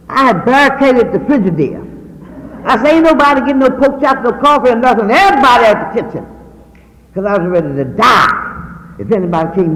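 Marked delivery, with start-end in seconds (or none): 2.9-6.2 retold stern order. Barricading fridge, ordering girls out.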